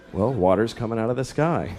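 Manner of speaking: put-on low-pitched explanation to a child; acted calm father answering; patient dad. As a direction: patiently spell out the obvious.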